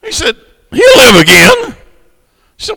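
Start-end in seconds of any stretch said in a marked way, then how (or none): 0.7-1.8 raised voice. Acted. Jesus answers the grieving sister.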